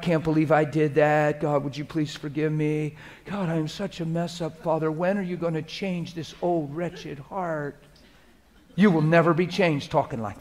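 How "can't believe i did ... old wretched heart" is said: mopey self-pitying prayer, fading soft; wrong way to pray. Shown as a demonstration. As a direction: whine it as a defeated sinner.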